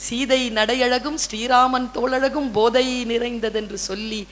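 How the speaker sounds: measured verse recital, lingering on the lines; poem recital. Acted. Speaker recites his son's verse on Kamban, savouring it. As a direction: savour each line of the verse.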